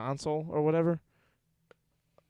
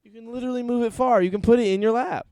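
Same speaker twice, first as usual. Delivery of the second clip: exasperated; 9 semitones higher, 6 dB louder than usual. Real, not acted. Annoyed at friend's phone.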